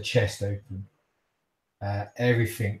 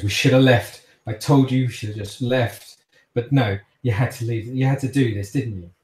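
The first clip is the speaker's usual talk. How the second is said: louder, bitter scolding held barely in check; restrained fury; 5 dB louder than usual. Acted. Cassandra scolds her father after the killing, barely contained anger. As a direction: rub his nose in it through the pain. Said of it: "trying to control herself".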